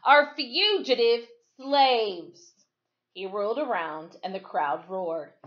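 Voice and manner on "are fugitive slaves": loud, higher, slow insistence; breathless. Acted. Deputy insisting to the crowd that they are slaves, loud. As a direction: press the claim over the crowd. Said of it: "he said breathlessly".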